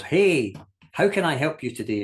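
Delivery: chirpy shop assistant pouncing on a customer; overeager shop assistant. Retold or imitated. Shop assistant greeting a browsing customer, overeager and bouncy. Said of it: "bounces up to you with endless enthusiasm".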